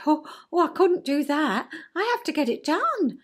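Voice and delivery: high, anxious protest, lightly played; a hint of a fretful child insisting; fretting child. Inner child insists on doing chin wag, mildly fretful. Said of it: "Child said".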